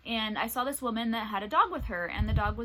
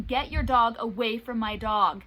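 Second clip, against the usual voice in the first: louder, slow firm command; retold yell; 6 dB louder than usual. Yelling at the woman with the off-leash dog, slow firm yell. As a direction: bark the order slowly at the stranger. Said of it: "I just yell at this woman".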